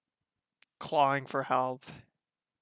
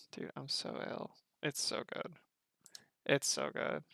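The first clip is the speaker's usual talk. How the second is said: hushed awe; 5 dB quieter than usual. Real, not acted. Overwhelmed, hushed praise.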